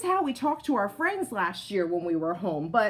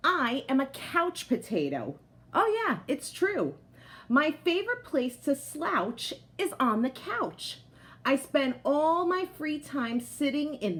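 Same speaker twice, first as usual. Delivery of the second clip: lively picture-book voice for the potato; reading to children; 3 semitones higher than usual. A narrator's reading. Teacher reading a picture book aloud to her class, lively storytelling voice. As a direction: tell it like a proud, cozy couch potato.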